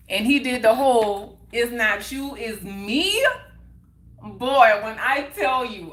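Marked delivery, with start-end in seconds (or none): 1.5-3.3 retold cliché with a rising, lilting end; mock breakup line. Woman quoting her boyfriend's breakup excuse to listeners, mocking. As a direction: quote the stock excuse, pitch swinging up.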